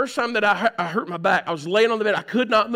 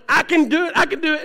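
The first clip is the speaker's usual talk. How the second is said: straining effort; 8 semitones higher, 4 dB louder than usual. Retold or imitated. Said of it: "And I'm going".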